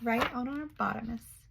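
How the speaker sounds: soft amused repeat under the breath; quiet. Real, not acted. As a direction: murmur it back, amused.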